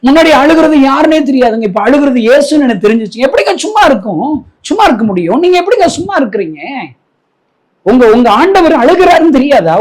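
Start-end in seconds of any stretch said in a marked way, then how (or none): none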